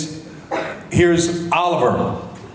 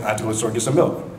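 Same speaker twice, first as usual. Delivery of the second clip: Felicity impression, fast; 5 semitones lower, 4 dB quieter, much faster than usual. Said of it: "Felicity doing".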